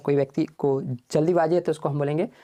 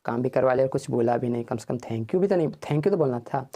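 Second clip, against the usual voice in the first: grumbling; 4 semitones lower than usual. Retold or imitated. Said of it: "तो समझेंगे".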